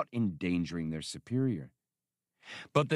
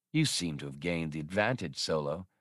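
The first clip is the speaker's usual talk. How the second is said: grudging admiration; 5 semitones lower than usual. Acted. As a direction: admit defeat with reluctant respect. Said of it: "Grudging admiration crept into his voice".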